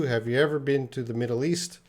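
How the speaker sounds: "ever" stressed, question rising at the end. Shown as a demonstration. Teacher models the corrected question with stress on "ever". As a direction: lean on "ever" and lift the end. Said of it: "I'm gonna put an ever in there".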